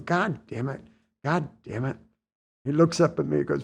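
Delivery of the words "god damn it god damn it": muttered curse. Retold or imitated. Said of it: "he's going".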